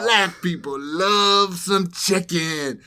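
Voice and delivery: put-on high, loud, slow voice of the young guy; loud, slow mock voice of the guy at the counter; imitating the Iraqi guy. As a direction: ham up his excited chicken claim. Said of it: "And he's like".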